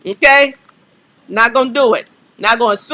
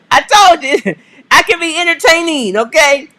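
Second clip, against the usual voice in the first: laughing; 5 semitones higher than usual. Real, not acted. Laughs at viewers calling him hilarious.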